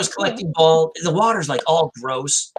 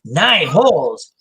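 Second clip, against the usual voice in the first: incredulous; 4 dB louder, much slower than usual. Retold or imitated. Dad shocked at nine-hole score.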